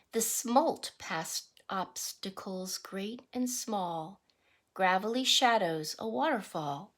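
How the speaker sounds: rhythmic picture-book read-aloud; reading to children. Acted. Teacher reading a salmon picture book to the class, sing-song read-aloud. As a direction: read the verse to the class with a lilt.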